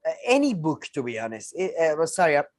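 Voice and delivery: talking through hiccups; interrupted by hiccups. Real, not acted. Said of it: "I'm having hiccups, so it's very difficult to talk".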